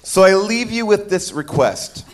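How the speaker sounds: lightly voiced fussy droid; anxious butler robot reading; C-3PO voice. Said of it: "That sounds like something C three P O would say".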